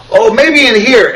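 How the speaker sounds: high, slow, offhand mock clerk; dopey counter kid. Imitating the clerk pointing at the junk bin, high and slow. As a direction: toss it off like a lazy kid. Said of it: "And he goes".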